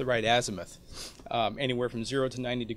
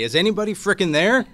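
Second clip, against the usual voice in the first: loud, high, fed-up yell with a laugh; exasperated shout; 8 semitones higher, 11 dB louder than usual. Retold or imitated. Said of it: "you're ready to say".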